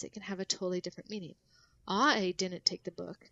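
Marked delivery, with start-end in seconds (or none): 1.9-3.3 slow take, weight on "I"; slowly, hitting "I" harder than the other words; slow demo line with "I" emphasized; stress on I. Shown as a demonstration. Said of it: "what you emphasize".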